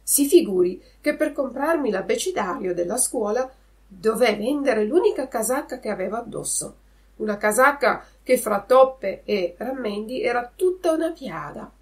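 a hint of an eager Pinocchio explaining. Pinocchio answers the puppeteer. (burattino che racconta con enfasi)

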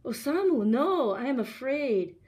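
high, loud fearful protest; frightened. A narrator's reading. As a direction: plead against it in fear. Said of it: "Fear swept across Yukiko's face".

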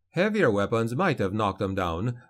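usual speaking voice

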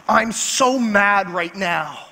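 slow, drawn-out mock seething; mock fuming. Wife phoning husband while driving home, mock fuming. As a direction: imitate a fed-up wife, stretching the words. Retelling wife's angry phone call.

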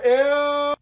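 loud high disgusted shriek. Acted. Gum fell on floor.

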